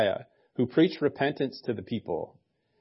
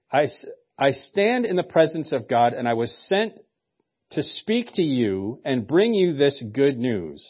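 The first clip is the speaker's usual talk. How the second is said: annoyed; 2 semitones higher than usual. Retold or imitated. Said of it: "a very annoyed tone".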